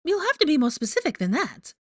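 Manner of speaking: very high, loud, fake-sweet trill; high, falsely chipper character voice; Rita Skeeter, falsely chipper. A narrator's reading. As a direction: gush with false cheer. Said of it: "her falsely chipper voice".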